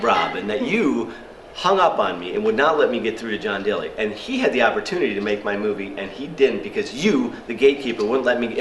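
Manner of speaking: mock indignant rant, leaning on YOU; retold anger. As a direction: scold the gatekeeper with mild outrage. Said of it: "so now I'm angry".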